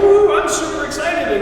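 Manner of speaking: mock student bursting with excitement; bouncy imitation of a happy student; excited. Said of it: "be like".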